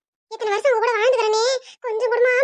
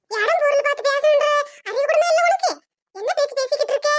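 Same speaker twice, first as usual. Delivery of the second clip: sharp scolding; 4 semitones higher than usual. Acted. Mother-in-law scolding in shop.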